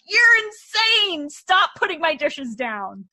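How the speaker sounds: retold exasperation. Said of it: "And I was like".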